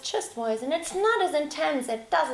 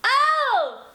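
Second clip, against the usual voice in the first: higher, louder chest-based Oh; belted oh; 13 semitones higher, 7 dB louder than usual. Shown as a demonstration. Teacher demonstrating the right belted Oh. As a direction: call it out from the chest. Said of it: "That's not girly".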